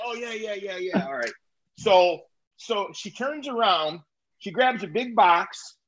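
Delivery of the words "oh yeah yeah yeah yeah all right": softer, breezy yeah yeah; casual cashier. Retold or imitated. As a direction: brush it off lightly. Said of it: "I gave her my fucking order again".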